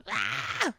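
mock rock singer wail; rock scream imitation. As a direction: belt a short rock wail. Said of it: "he just sounds like".

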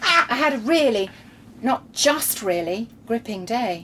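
slow, sarcastic emphasis on REALLY; dripping with sarcasm. Acted. Rereading the diary's gripping day without the Australian accent, sarcastic. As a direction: draw out the sarcasm. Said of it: "dripping with sarcasm this is".

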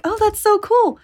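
mock delight. Delighted after gecko bites her.

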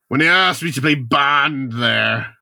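mock Irish brogue; Pierce Brosnan, thick Irish. Brosnan recalling being offered Bond, thick Irish accent. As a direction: exaggerate the Irish vowels. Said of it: "doing a really thick Irish accent".

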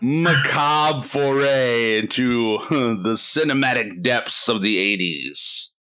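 slow, lightly spooky villain voice, laughing; drawn-out horror host intro; Vincent Price voice. Acted. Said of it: "your Vincent Price voice".

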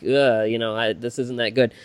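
low, soft, deflated grumble; muted disappointment. Retold or imitated. Grown fan revisiting childhood favorites, quietly let down.

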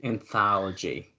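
"Anthology" drawn out syllable by syllable; careful slow repeat. Real, not acted. Host repeating his corrected word, "Anthology" slow and careful. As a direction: repeat "Anthology" slowly and deliberately.

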